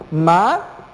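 "Matemática" split into ma, te, má, ti, ca with pauses; syllable by syllable. Shown as a demonstration. Teacher separates the word for students, syllable by syllable. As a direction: say "Matemática" one syllable at a time. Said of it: "Separemos la palabra matemática".

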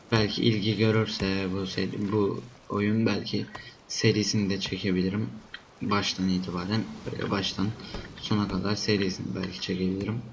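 sick voice with a stuffy nose; sniffly, stuffed-up voice from a cold. Real, not acted. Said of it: "Hasta olduğum için de sürekli burnumu çektim".

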